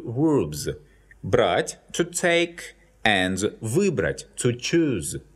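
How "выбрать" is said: выбрать with the stress on вы; выбрать, hit the first syllable вы; stressed prefix. Shown as a demonstration. Teacher comparing verbs, выбрать with stress on вы. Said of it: "the stress falls on the prefix вы".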